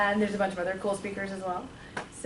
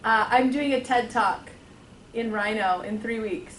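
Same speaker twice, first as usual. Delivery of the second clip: repeated louder and slower so the room can hear; louder, slower repeat for listeners who missed it; speaking up; 5 dB louder, slower than usual. Real, not acted. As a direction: say it again, louder and slower for the back. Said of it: "I had no idea what you just said".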